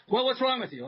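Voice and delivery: mock indignant patient; whiny caller. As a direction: snap back as the demanding patient. Mock caller high whine.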